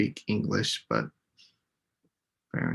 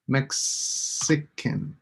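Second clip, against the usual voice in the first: "Mexican" very slow, MEX leaned on, falling; slow stress on MEX; 4 dB quieter, much slower than usual. Shown as a demonstration. Teacher stretching the word to show its stress, slowly. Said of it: "put a little star on each one that has the stress syllable".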